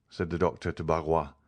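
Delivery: ordinary delivery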